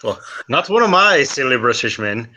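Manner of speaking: lightly Irish, half-slipping; a hint of Irish brogue; Irish accent. Irishman correcting the scholar, light Irish accent. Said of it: "I claim Irish".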